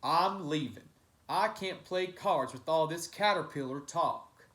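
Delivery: fed-up loud outburst; card player fed up with caterpillar talk; shout. Acted. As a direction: storm off shouting. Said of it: "banged the table and shouted".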